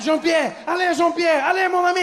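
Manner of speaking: hammed-up Frenchman shrieking a warning; panicking French father. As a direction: shout in mock French panic. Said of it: "He's like".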